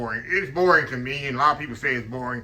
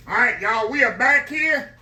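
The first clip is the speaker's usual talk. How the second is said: excited greeting; 8 semitones higher, 7 dB louder than usual. Real, not acted. Cheerful return greeting to camera.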